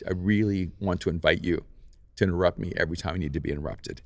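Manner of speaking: retold kindly, in an even voice; gently invite, with understated kindness; kind invitation. Inviting the director to interrupt her, understated kindness. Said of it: "in a very kind way".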